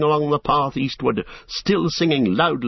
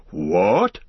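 mild shout; 4 semitones lower than usual. Acted. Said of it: "shouted Tom Bombadil".

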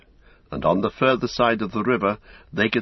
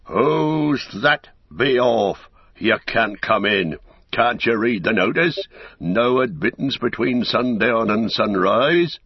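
a sharp, louder challenge at the gate; shouted from the dark; 3 semitones higher, 3 dB louder, slower than usual. Acted. Gatekeeper shouting at travellers in the dark, loud challenge. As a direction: bark it out as a wary gatekeeper. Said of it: "A voice shouted in the dark".

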